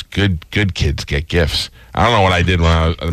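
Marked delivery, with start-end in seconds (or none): 0.0-1.7 slow, quiet mock sneer; mean uncle. The uncle to the boy, a slow mocking sneer. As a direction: look down on the kid. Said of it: "he looks at me and he goes".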